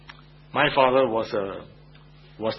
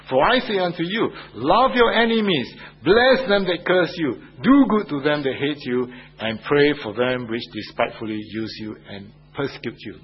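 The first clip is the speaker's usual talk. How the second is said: scripture recitation; 3 dB louder than usual. Acted. Preacher quoting Matthew, rising.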